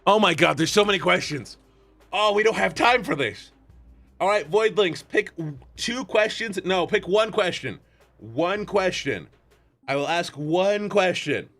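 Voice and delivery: normal talking voice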